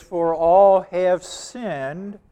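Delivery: "all" drawn out slowly; slow verse reading, leaning on "all"; stress on "all". Shown as a demonstration. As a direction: give "all" long, deliberate weight. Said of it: "I got an emphasis on the word all".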